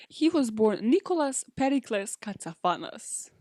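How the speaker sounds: dramatic announcement of the full name; grand reveal. Pretend. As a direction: lay out each name like a big reveal. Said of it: "Give me the biggest drum roll".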